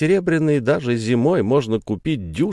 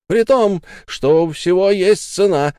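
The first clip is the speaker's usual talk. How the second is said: higher, louder furious yell; angry shout; 8 semitones higher, 5 dB louder than usual. Acted. Sara shouts at Ralph about the price of everything. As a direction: hurl it at him. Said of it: "закричала Сара".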